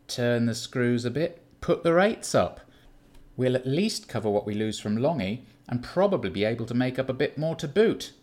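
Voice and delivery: scheming Keith. Acted. Keith pitches a plan to squeeze customers, animated.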